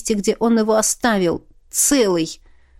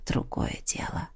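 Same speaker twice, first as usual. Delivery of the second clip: whispered against her lips, much softer; breathed whisper; 13 dB quieter than usual. Acted. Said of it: "выдохнул он в её губы". (шёпотом, выдохом)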